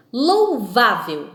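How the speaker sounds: Louvável slow and loud, VÁ stretched out; teacher's syllable-stress demo, Louvável with a long strong VÁ. Shown as a demonstration. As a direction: draw out the middle syllable VÁ in Louvável. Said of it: "Em alto e bom som".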